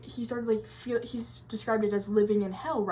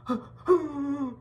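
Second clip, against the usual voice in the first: high gasping shudder; creeped-out gasp; 5 semitones higher than usual. Real, not acted. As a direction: let out a spooked, high-pitched breath. Teller shudders at the freaky story.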